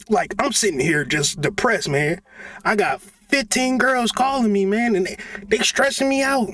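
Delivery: mock sad rich man. Acting mock sad rich rapper.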